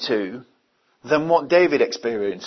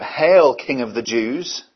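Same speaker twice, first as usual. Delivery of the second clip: mock hail; slower than usual. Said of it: "spit on him and cry out".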